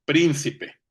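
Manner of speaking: PRÍN-cipe, stress up front; stressed first syllable. Shown as a demonstration. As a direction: lean hard on the first syllable of príncipe. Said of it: "es esdrújula".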